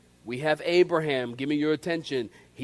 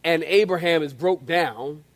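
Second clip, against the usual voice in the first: sarcastic Sarah; 4 semitones lower than usual. Acted. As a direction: mutter it in disbelief. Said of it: "when Sarah begins to laugh, she goes".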